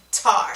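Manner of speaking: "tar" with a front t in place of k; child saying tar. Retold or imitated. Therapist imitating a child's fronting: tar for car. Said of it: "they're supposed to say the word car".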